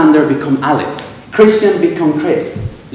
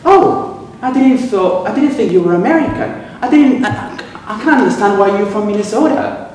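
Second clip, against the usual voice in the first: high, amazed American voice, pitched up; American colleague; 4 semitones higher than usual. Retold or imitated. Puzzled colleague to the Venezuelan speaker, high and amazed. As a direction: play the puzzled American who hears Minnesota. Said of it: "And they reply, always, always".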